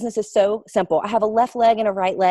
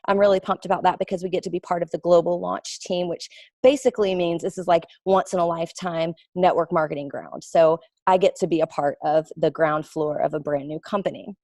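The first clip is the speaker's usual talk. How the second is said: demo sales message. Shown as a demonstration. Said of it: "So I'll just say".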